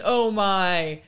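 imitated unfinished phrase, left hanging; trailing off. Mother retelling her son's challenge to a kid, trailing off. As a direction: let the last word drift off. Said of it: "And then he trails off".

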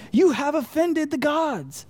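hammed-up grandiose verdict to a slow driver; mock pompous deity. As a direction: pronounce it like an offended deity. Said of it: "the look that says".

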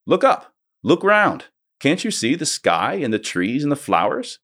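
put-on high, urgent girl's voice, pitched well up; a young girl begging them to look; Lucy pleading. A girl begs the blind dwarves to see the sky, urgently.

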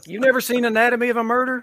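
can't believe they haven't seen it; incredulous. Real, not acted. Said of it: "He's just incredulous about that".

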